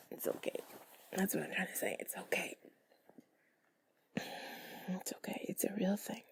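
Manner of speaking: soft intimate ASMR whisper; sultry narrator. Real, not acted. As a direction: breathe the words close to the mic. Soothing whisper to the listener.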